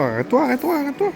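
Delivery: high urgent calling out. Real, not acted. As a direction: call out to stop them. Calling to stop.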